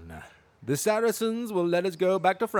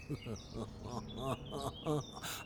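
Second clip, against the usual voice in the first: sinister chuckle; 3 semitones lower, 14 dB quieter than usual. Acted. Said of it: "I really need to work on my sinister chuckle".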